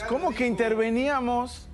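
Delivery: put-on indignant astonishment; mock disbelief. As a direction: question it as if aghast. Acted aghast reaction to the president's words.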